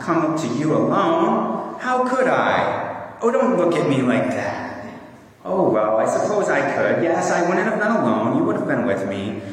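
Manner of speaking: a hint of a protesting child in a story; lightly voiced pleading Lucy. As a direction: plead Lucy's case, lightly acted. Reads Lucy's part in Narnia story.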